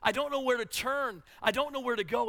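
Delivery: despairing lament. Retold or imitated. Preacher imitating Jeremiah lost in darkness, despairing. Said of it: "he's like".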